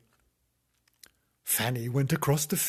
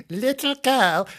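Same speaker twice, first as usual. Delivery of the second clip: high, slow, louder crone; drawn-out, pitched-up old lady; old woman voice; 13 semitones higher, 7 dB louder, slower than usual. Acted. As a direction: call out slowly as an old woman. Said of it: "this is my old woman voice".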